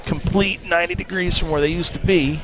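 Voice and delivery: loud. Real, not acted. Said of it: "now you guys asked for the volume".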